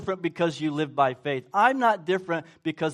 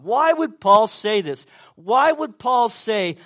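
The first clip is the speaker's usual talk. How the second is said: loud slow question; 4 semitones higher, 7 dB louder, slower than usual. Acted. Preacher raising rhetorical question.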